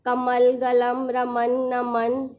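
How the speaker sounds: put-on each word read out slowly and clearly for children; slow, deliberate classroom reading. Shown as a demonstration. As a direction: spell them out slowly, word by word. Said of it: "ये रहा".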